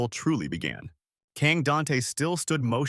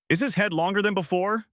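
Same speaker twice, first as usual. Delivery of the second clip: mild shout; 8 semitones higher than usual. A narrator's reading. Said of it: "shouting loudly".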